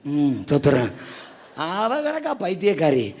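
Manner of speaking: usual speaking voice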